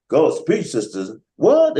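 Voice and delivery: mock church call-and-response shouts, jumping high; imitated congregation shout. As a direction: call out like a church audience egging on the preacher. Imitates church congregation calling back.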